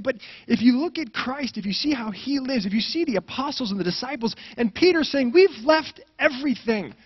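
high, loud climactic preaching; preaching at full force. Acted. Preacher reaching his climax about the apostles. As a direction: peak of the sermon, ring it out.

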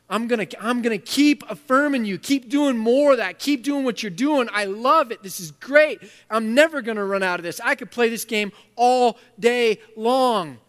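loud, exuberant praise; delighted God. Acted. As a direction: cheer them on like a thrilled father. God voiced, exuberant affirmation.

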